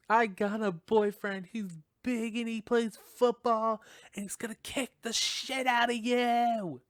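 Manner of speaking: high, loud frightened yell, slowing at the end; screaming threat. Retold or imitated. Girl screams at the killer over the phone, high and loud. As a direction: shout the boyfriend threat to scare him off. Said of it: "And then she screams".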